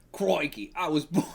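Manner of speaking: mock Australian accent breaking into laughter; hammy Australian accent. Reader starting the Kangaroo's backstory, hammy Australian accent. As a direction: get into a comic Australian accent. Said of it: "I gotta say crikey, get into it".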